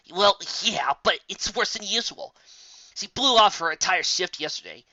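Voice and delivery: a touch of an irritated pegasus; mild rant. Acted. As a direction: vent about a skipping coworker. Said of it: "her rant".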